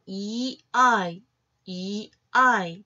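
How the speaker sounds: 이 아이 as two separate sounds, 이 then 아이; teacher sounding out 이 and 아이; pronunciation demo. Shown as a demonstration. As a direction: stretch 이 아이 slowly, sound by sound. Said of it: "이 아이의 성은".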